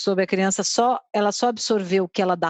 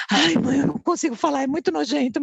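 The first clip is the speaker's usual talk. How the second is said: son's whiny drama, pitched higher; dramatic kid; 5 semitones higher than usual. Retold or imitated. Boy stalling before asking his mom, dramatic whine. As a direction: play the squirming embarrassed boy. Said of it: "Faz um drama".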